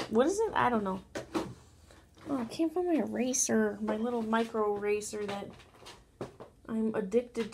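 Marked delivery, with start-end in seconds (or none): none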